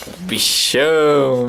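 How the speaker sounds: slow, teasing monster call; play monster. Pretend. Father teasing his baby, slow mock monster call.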